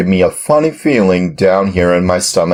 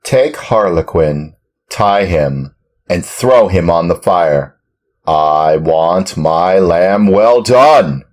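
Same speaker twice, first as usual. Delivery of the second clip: hoarse yell; 3 semitones higher, 10 dB louder than usual. Acted. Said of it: "yelled at them in a hoarse voice".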